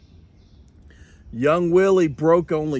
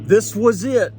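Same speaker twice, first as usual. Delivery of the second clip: excited Kevin; 6 semitones higher, 6 dB louder than usual. Acted. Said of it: "said Kevin".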